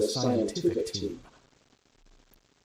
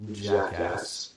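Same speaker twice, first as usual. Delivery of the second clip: deliberate hiss; 4 semitones lower than usual. A narrator's reading. Scientist insulting the lieutenant, a deliberate hiss. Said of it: "Pretzel hisses ... spoken with deliberation".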